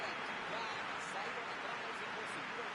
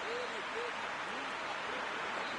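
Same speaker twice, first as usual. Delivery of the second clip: excited commentary; 12 semitones higher, 5 dB louder than usual. Real, not acted. Rising excitement in play-by-play.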